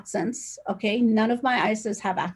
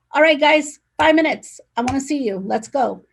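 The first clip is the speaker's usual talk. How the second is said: loud, higher boss call to the team; 4 semitones higher, 5 dB louder than usual. Retold or imitated. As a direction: summon the team, a bit raised up. Calling her team to a meeting.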